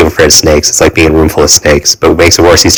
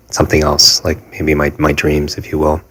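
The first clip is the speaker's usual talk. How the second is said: much softer, trailing off into regret; quiet; 6 dB quieter than usual. Real, not acted. Recalling throwing away his dreams, softly trailing off. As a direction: let the words fade away softly.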